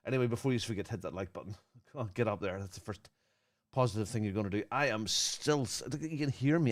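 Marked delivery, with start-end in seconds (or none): 4.7-6.7 wheezing through a tight chest; words squeezed out past a wheeze; wheezy voice. Real, not acted. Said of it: "I'm wheezing".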